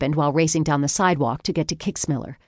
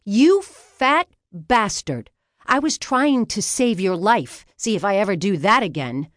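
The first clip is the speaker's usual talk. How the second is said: incensed screaming; 5 semitones higher than usual. A narrator's reading. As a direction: yell at him in outrage. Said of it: "I screamed at Kicksmiller".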